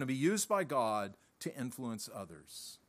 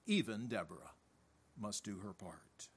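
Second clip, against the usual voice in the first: whispered emphasis; 7 semitones lower, 10 dB quieter than usual. Real, not acted. Preacher whispering the point to his church, hushed.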